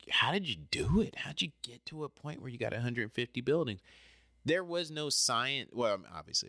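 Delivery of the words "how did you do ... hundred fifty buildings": whispered question. Retold or imitated. People asking about his success.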